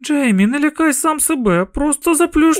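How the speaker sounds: a mother cutting off his fear; firm mother. A narrator's reading. Mother firmly hushing scared son.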